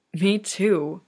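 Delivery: a light, airy wheeze of relief; wheezed. Acted. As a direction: breathe it out, overwhelmed. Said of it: "Kageyama wheezed".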